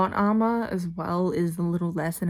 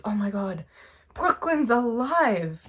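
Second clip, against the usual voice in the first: a playful preview of the shocked reaction, pitch rising on alive; mock shocked; 4 semitones higher, 4 dB louder, slower than usual. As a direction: act out my own future gasp of surprise. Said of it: "You'll see me in a minute, like, shocked".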